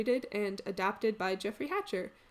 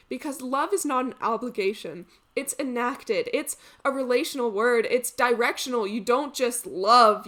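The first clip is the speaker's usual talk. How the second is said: earnest reflective monologue, building in emphasis then easing off; measured, heartfelt stage delivery; dramatic monologue; 6 dB louder than usual. Acted. Actor reflecting on love in an audition monologue, earnest.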